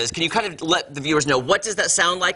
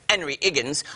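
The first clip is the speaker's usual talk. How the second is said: "Henry Higgins" with both H's left off; Cockney dropped H's; 3 dB quieter than usual. Acted. Host naming the role, in a light Cockney accent. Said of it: "I have to say it like that".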